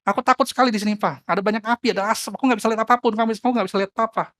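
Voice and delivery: high, loud, panicky cries; frightened child. A narrator's reading. Trapped child shouts down to father, terrified. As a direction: cry out in fear from a burning roof. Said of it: "Anaknya jawab".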